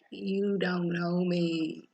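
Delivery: slow, deliberate menacing warning; slow threat. Retold or imitated. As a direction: spell out the threat word by word, slowly. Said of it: "And Priscilla's like".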